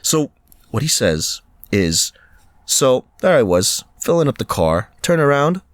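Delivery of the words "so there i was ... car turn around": put-on Butcher's odd, wandering accent; roundabout accent imitation. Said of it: "he says it in the most roundabout".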